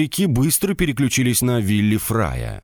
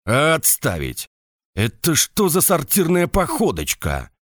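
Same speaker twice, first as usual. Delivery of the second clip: shouting drill sergeant; 7 semitones higher than usual. A narrator's reading. Sergeant halts the march.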